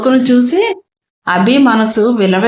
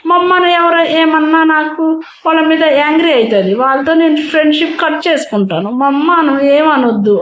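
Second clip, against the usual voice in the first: put-on higher, earnest little boy's voice; protective child; 4 semitones higher than usual. Son earnestly defending his mother to Abhi, in a child's voice. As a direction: warn everyone to leave mama alone.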